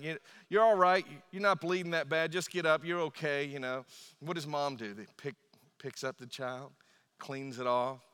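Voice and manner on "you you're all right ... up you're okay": louder, higher, brisk get-up-you're-fine; gruff dad telling his fallen kid to get up; gruff dad brush-off. Retold or imitated.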